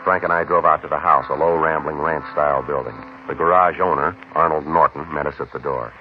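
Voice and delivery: flat, even, matter-of-fact case narration; police report narration. A narrator's reading. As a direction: read the log like a tired detective. Detective narrates case log.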